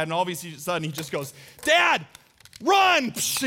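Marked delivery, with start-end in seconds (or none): 1.6-3.1 put-on high, loud yell of a little boy; imitated kid's yell. Son ambushing dad with a squirt gun, excited yell. 3.1-3.4 "psh" of a squirt gun; imitated squirt noise. Preacher showing the squirt gun firing, spray noise.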